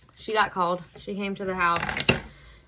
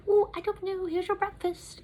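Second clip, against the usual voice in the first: much higher, breezy careless staffer; offhand staff; 12 semitones higher than usual. Retold or imitated. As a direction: toss it off like you couldn't care less. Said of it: "they're like".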